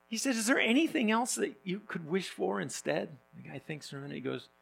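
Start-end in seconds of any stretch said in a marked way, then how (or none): 0.3-3.2 genie voice. Retold or imitated. Genie asks for other wish.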